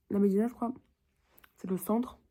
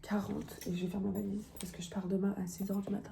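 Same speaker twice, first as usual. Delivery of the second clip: whispering; 7 dB quieter than usual. Real, not acted. Soft whispered vlog narration.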